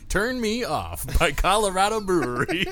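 high, loud robotic voice assistant. Retold or imitated. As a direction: chirp it like a smart speaker. Imitating the assistant.

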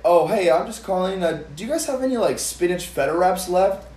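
timid caller. Retold or imitated. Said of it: "some people will literally call and be like".

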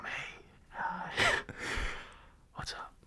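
hushed, mock-flirty voice memo whisper; joking whisper. Single guy demonstrating voice memos to dates, joking whisper. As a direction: whisper it with a laugh breaking in. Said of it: "Just whispering to 'em".

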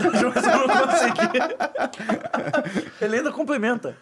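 laughing through the words, can't keep a straight face; giggling, trying to stay serious; stifled giggles. Real, not acted. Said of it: "Eu tava tentando manter a seriedade".

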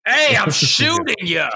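slow, loud, hammed-up Boston tough guy; bad mock Boston gangster accent. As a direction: play a Departed gangster, badly. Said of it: "like, The Departed?".

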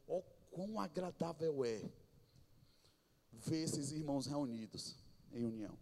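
psalm read softly as God delighting; God's pleased voice. Shown as a demonstration. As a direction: let God sound glad over His children. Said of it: "Aqui é Deus dizendo".

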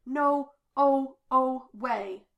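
loud, stretched-out denial; shocked disbelief. A narrator's reading. Dipper in shocked, growing disbelief.

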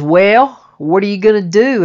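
loud, demanding father's question; angry father. Retold or imitated. Father angry on the phone, loud demanding question. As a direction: bark it like an angry dad. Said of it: "he was very pissed off".

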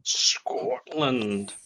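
drawn-out whispered echo; mock pageant echo. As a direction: whisper it theatrically, stretching it out. Echoing the pageant announcement.

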